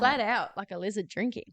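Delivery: lightly put-on Aussie accent; playful Australian imitation. Shown as a demonstration. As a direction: try it in an Australian twang. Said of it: "considered saying it in an Australian accent".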